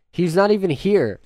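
high, loud exasperated shout; frustrated protest. Acted. Acted protest to the butler.

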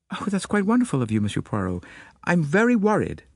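put-on faint American accent. A narrator's reading. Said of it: "faint transatlantic accent".

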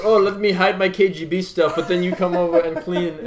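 lightly voiced Russian accent for the neighbour. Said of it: "Immaculate Russian accent".

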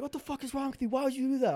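high, appalled imitation; mock dismay. Cousins questioning the brother, mock dismay.

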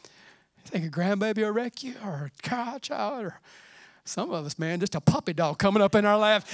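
ordinary talk, nothing marked

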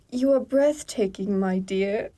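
badly faked British accent, second attempt. Trying the alien's British compliment for the co-writer, clumsy British accent. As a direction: try a posh-suitor line in unconvincing British. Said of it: "in the correct accent".

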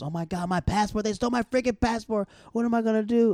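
hammed-up passport panic; mock panic. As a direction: play the friend freaking out about her passport. Retelling Joanna panicking over passport.

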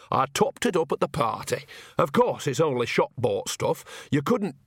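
lightly voiced cheeky old woman; a hint of a sly old granny; old witch voice. Nanny character continues.

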